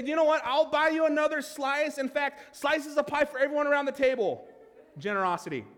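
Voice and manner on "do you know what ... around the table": generous. Pretend. Voicing the gift of generosity.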